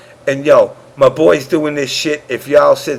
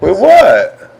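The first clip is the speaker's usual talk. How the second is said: higher, louder mock-startled "wait, what"; baffled reaction; 7 semitones higher, 6 dB louder than usual. Storyteller replaying his reaction to the curse, baffled. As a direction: act out being caught off guard, loudly.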